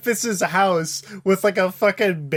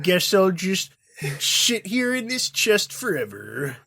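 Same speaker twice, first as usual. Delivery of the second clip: Droopy Dog; 2 semitones lower than usual. Acted. Co-host plays the man locked in a chest, glum Droopy voice. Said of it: "He's like fucking droopy dog".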